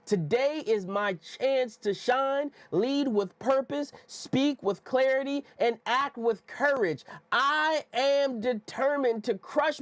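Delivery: slow, emphatic motivational affirmation; measured, punchy chant-like declaration for others to follow; affirmation from within. Shown as a demonstration. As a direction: declare it like you mean it, word by word. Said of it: "You gotta say it from".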